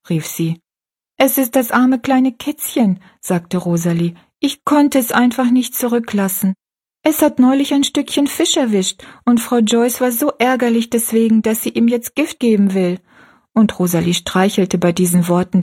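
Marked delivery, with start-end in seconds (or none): 1.2-3.0 lightly voiced girl, somewhat higher; a hint of a gentle young girl; young girl Rosalie. Rosalie answers Betty Ann. 4.4-13.0 lightly voiced girl, somewhat higher; a hint of a gentle young girl; young girl Rosalie. Rosalie explains about the kitten.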